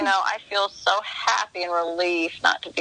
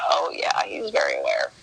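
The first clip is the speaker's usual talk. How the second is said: knowing whisper. Retold or imitated. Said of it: "I said".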